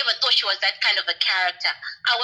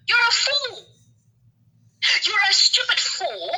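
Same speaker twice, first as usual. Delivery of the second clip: slow, contemptuous name-calling; a scornful fool; scornful insult; 8 semitones higher, slower than usual. Real, not acted. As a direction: spit the insult out slowly. Rant at Julie.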